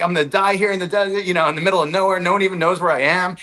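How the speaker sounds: a touch of alarm, not shouted; retold freak-out. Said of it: "freaking out".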